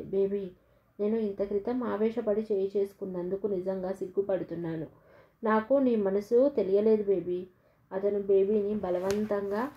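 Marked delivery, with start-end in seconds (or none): 0.0-7.5 tender, loving. Acted. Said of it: "కంఠం ఈ సృష్టిలో ప్రేమనంతా రంగరించినట్లుగా పలికింది". (ప్రేమగా, మృదువుగా)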